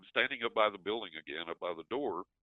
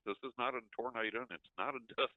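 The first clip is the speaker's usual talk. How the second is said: baffled surprise; 5 semitones higher than usual. Retold or imitated. Baffled at strange cloud.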